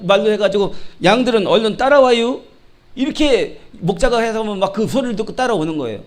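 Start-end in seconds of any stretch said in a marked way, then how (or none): 1.0-2.4 lightly imitated Chungcheong dialect call. Shown as a demonstration. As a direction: call the sheep in a Chungcheong accent. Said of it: "충청도 말". (살짝 흉내 낸 충청도 사투리)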